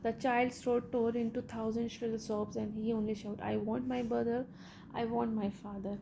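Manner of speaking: slow, measured read-aloud of a story; deliberate textbook narration. Acted. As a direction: read each phrase out slowly for the class. Reads English story text aloud.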